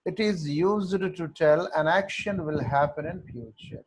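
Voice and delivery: very slow, in one run; teacher repeating the rule for note-taking, very slow; slow dictation repeat. Shown as a demonstration. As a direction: read the whole sentence slowly for copying.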